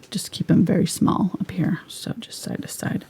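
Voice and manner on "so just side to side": soft whisper, barely voiced. Real, not acted. Painter whispering brush instructions to viewers. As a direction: murmur it like not to wake anyone. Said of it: "I don't know why I'm whispering".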